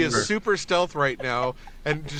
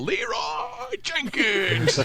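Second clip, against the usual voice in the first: Leroy Jenkins battle cry; 10 semitones higher, much slower than usual. Retold or imitated. Quoting the famous reckless battle cry.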